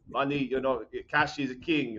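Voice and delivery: put-on light Italian accent, words ending in an extra vowel; playful Italian grandpa accent. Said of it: "like, you know, the Italian accent".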